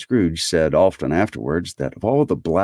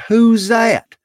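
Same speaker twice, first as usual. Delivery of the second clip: high, loud, startled question; amazed nephew crying out; astonished cry; 7 dB louder than usual. A narrator's reading. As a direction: call it out in sheer surprise. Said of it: "cried Fred".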